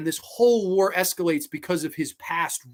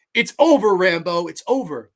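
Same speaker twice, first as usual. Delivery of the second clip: louder, firm colonel ordering surrender; commanding; 3 semitones higher, 7 dB louder than usual. Retold or imitated. Colonel telling Rambo it's over, loud and commanding. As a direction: call it loud and final. Crenna confronting Rambo, acted.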